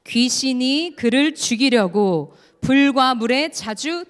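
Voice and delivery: slow, loud solemn recitation; unison scripture reading. Shown as a demonstration. Preacher leading the congregation through Mark 9, slow and loud. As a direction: read it aloud together, drawn out. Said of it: "우리 같이 읽겠습니다".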